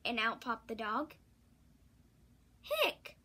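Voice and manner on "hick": hiccup. Acted. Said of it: "went the cat".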